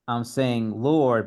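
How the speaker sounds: "Lord" drawn out, slow and weighty; slow stress on Lord. Shown as a demonstration. Teacher contrasting titles, slow stress on Lord. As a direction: let "Lord" land slowly. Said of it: "it's not just that".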